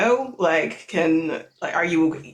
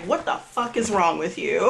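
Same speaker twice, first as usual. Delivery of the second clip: mock scold breaking into laughter; half-angry, half-laughing, voice pitched up; laughing mock anger. Belle shoving Haruka, laughing while scolding.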